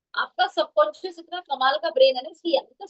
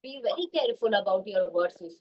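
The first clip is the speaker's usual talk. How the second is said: drawn out and a bit softer; slow warning; 3 semitones lower, 4 dB quieter, much slower than usual. Shown as a demonstration. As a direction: lay each word down slowly. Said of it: "Always remember these words".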